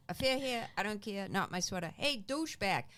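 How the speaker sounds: tough Brockton talk, picking a fight; rough Brockton accent. Retold or imitated. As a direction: Brockton street accent, cocky and rising at the end. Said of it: "that's how I used to talk".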